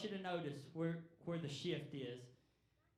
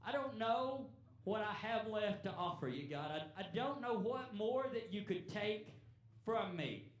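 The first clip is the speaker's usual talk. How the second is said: raised, earnest plea, a little higher; pleading cry to God; 4 semitones higher than usual. Retold or imitated. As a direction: cry out to God with nothing left. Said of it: "he's crying out and he says".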